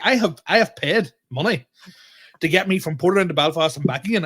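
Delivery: retelling the row over the paper ticket, heated; exasperated protest. Retold or imitated. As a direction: lay out your case, fed up and loud. Arguing with the ticket guy.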